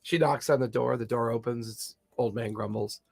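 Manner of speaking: ordinary delivery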